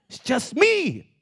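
high, slow sneaky aside; mock furtive inner voice; sly whisper-thought. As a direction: tempt yourself with a high slow sly line. Voicing temptation, nobody will see.

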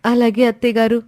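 a grateful bride thanking her mother-in-law through happy tears; tearful young daughter-in-law. Acted.

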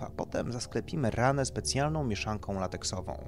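doctor explaining procedure. Acted. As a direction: explain it like a consultant to a client.

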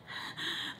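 soft voiceless gasp, acting out panic; imitated anxious breathing; quiet freaking-out breath; panicked breath. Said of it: "like, freaking out".

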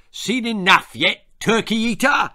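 high, loud taunt; snarling. A narrator's reading. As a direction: snarl it like a hostile sergeant. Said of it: "he snarled".

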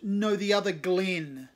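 loud, slow proud joke; proud announcement. Acted. Cave teasing nervous Glenn, loud and proud. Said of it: "Cave announces proudly".

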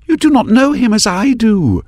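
high, defiant retort; defiant young woman. A narrator's reading. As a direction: argue back hard. Maris argues back.

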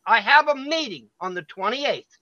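deliberate restating. Real, not acted. Parent restating to hecklers, slow and deliberate. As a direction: spell it out slowly for interrupters. Restating slowly after being interrupted.

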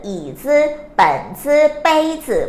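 each final จื่อ short and light; neutral tone. Shown as a demonstration. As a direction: stress อี, เปิ่น, เป้ย and drop จื่อ. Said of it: "พวกนี้จะอ่านเป็นเสียงเบา".

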